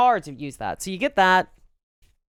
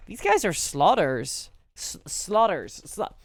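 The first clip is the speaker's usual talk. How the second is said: Belfast accent coming through on slaughters; slow, drawn-out Belfast vowels on slaughters; 3 semitones higher, slower than usual. Real, not acted. Streamer tripping over a word, Belfast accent coming through. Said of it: "my Belfast accent's coming through".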